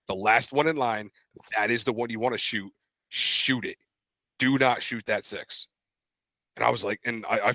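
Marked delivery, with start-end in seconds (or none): 0.1-5.7 deliberate retold order, word by word; measured, emphatic instruction; insistent arguing. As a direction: spell it out firmly, with pauses. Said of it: "We're sitting there arguing".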